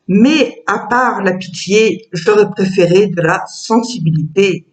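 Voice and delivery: measured poem reading with pauses between verses; poem recitation. Acted. Author reads her poem about a cow to present her book, measured recitation. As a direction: recite the verses evenly, letting each rhyme land.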